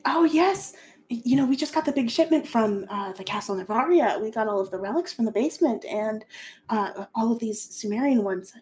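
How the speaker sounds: proud of his translation work; a touch of nervous excitement; eager young scholar. Acted. GM voices Hasno at length.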